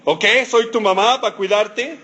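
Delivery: lightly mock-indignant mom; complaining mother. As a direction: lay on the guilt. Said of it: "Original y patentada por Moisés".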